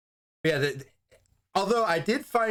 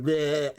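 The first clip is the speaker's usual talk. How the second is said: mock lizard-vampire noise; cartoonish monster bleh; imitated creature bleh. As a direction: stretch out a light creature bleh. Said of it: "and he's like".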